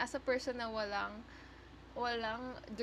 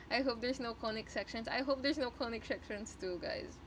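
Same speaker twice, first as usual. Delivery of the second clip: with a sore tongue. Real, not acted. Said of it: "my tongue hurts".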